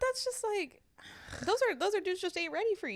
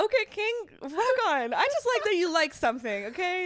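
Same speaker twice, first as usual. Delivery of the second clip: mock cheer; 2 semitones higher, 4 dB louder than usual. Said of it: "And I'll be like".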